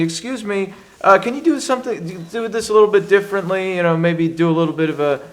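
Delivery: casting director voice. Retold or imitated. Retold casting director's request.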